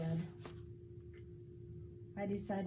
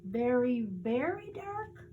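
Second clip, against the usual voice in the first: put-on nervous boy; 4 semitones higher, 4 dB louder, slower than usual. Nervous boy asking about dark.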